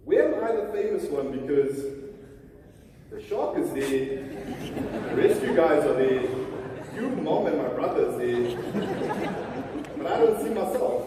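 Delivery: playful, put-out complaint with loud bursts; mock indignation. Son griping to dad about the newspaper picture, mock indignant. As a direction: list everyone else with mock grievance.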